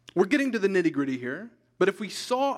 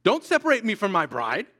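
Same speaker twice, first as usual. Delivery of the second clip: Jesus' firm reply; 3 semitones higher, 4 dB louder than usual. Retold or imitated. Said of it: "Jesus' response to that is".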